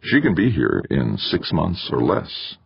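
tempting. Acted. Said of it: "Eberly tempted".

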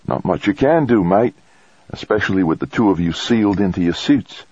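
high character voice for the doctor; physician on comms. A narrator's reading. Physician tells the astronaut little can be done, high-pitched doctor voice.

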